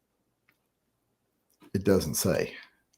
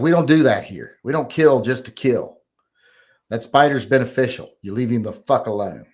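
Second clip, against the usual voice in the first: retold scolding; 4 dB louder than usual. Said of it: "I was mad".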